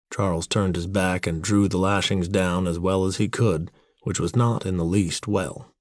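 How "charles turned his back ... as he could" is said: ordinary delivery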